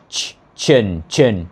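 "chin" as a separate low, falling syllable; isolated ch sound. Shown as a demonstration. Teacher showing the sound after S, isolated ch syllable. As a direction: isolate the "ch", then drop into "chin". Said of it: "rồi mới tới âm ch".

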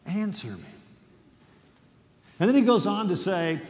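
tender father. Acted. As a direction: ask gently, like a hurt father. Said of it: "with the tenderness and the compassion of a father".

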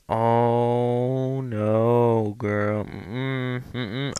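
mock a scolding stereotype, stretching the words; stereotype impression. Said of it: "I'm being racist".

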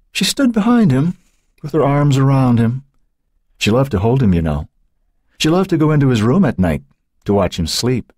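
high, faraway reminiscing; dreamy. A narrator's reading. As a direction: drift into memory.

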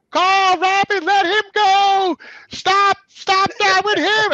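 high, drawn-out yell down a shaft; grandmother yelling. Retold or imitated. Grandmother yelling down the elevator shaft at the cousins. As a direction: holler from floors above, stretching the words. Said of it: "she was yelling down the elevator shaft".

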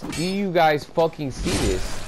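high disbelieving question to the viewers; incredulous plea. Real, not acted. Gamer begging viewers to witness it, high incredulous question.

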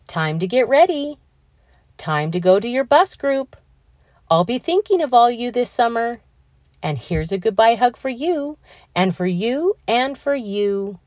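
put-on a gentle teacher sending kids off; kind teacher voice. Teacher figure saying goodbye.

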